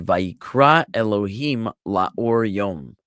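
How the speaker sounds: Vayikra Elohim la'or yom read slowly and carefully; careful Hebrew recitation. Shown as a demonstration. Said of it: "We had it right here in verse five, that it said".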